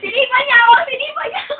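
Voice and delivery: mock outraged high protest; high-pitched complaint. Complains that Ichiro kicked them.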